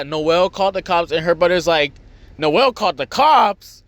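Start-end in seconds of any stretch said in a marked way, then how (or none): 2.4-3.8 higher, slower mock disbelief; startled brother. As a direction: echo the news as a stunned question. Brother reacts to the news.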